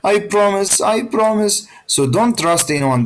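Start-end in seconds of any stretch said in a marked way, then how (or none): 0.0-1.7 higher pleading voice, lightly acted; pleading tiger. Teacher voicing the caged tiger begging the boy, mild pleading. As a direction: beg sweetly to be let out. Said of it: "talking softly and emotionally".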